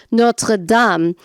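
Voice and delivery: Notre Dame the French way, "NOH-truh DAHM"; French pronunciation. Retold or imitated. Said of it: "I do a terrible French accent".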